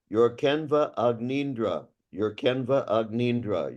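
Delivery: mock wrong take, Canva and Agnindra split with an extra syllable; imitating the mistake. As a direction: copy the student's error, Canva then Agnindra apart. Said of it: "here's what you're saying".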